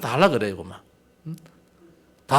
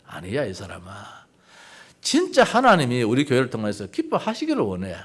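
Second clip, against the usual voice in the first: gentle voice of God; 4 semitones lower, 4 dB quieter than usual. Retold or imitated. God answers the pastor.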